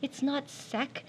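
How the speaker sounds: "not" stressed, slow and soft; slow emphatic "not sec". Shown as a demonstration. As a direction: lean on "not" in "It's not sec". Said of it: "Don't say the sec one".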